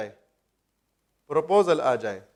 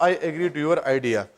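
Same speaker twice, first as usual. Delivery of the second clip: very slow, every word spaced; slow model sentence; 3 semitones lower, much slower than usual. Shown as a demonstration. Teacher slowly presenting the correct sentence to students, very slow.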